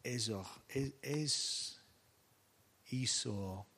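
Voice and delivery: stumbling attempts at Ésaü, said as "Ésor", "És-", "Isor"; fumbled name. Real, not acted. Preacher struggling to pronounce a biblical name. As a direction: grope for the name and miss it. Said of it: "J'ai toujours un problème avec ce nom".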